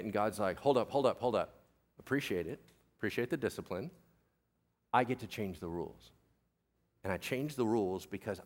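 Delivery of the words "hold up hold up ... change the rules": low, soft, unhurried interruption; calm authority. Acted. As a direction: gently halt them, quiet and assured. God calmly interrupts Peter's refusal.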